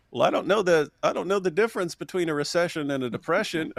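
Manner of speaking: lightly voiced hapless Carter, chuckling; mildly mock a clueless president; quoting Carter. Retelling Carter's recession answer, lightly mocking. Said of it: "Jimmy Carter goes".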